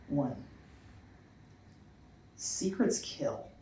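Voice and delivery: deliberate spoken word with long pauses; measured poetry delivery, weight on key words; poem reading. Acted. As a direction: recite a numbered list, letting each item land. Reads a numbered list poem.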